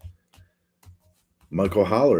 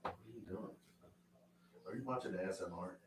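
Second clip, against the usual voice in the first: calling from another room; 23 dB quieter, faster than usual. Real, not acted.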